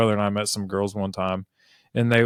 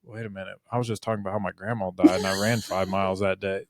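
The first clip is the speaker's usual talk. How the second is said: a quieter, lower aside; taken aback; 4 semitones lower, 8 dB quieter than usual. Acted. Runner to interviewer after an emotional story, taken aback. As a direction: drop the volume, as if pulled up short.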